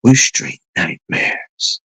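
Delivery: slow, whispered gangster menace; imitating a villain's slow whispered threat; menacing film villain. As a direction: hiss it like a movie villain. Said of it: "And then he goes something like".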